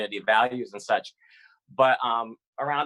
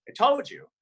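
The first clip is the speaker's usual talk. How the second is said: excited; 14 semitones higher than usual. Retold or imitated. Excited father, leaping up.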